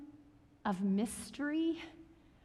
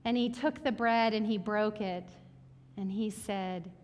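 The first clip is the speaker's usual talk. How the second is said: prayer. Acted. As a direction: pray gently over the people. Leads the congregation in prayer.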